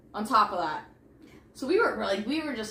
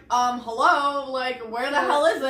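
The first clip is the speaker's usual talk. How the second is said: mock indignant; 3 semitones higher, 4 dB louder than usual. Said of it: "it's like".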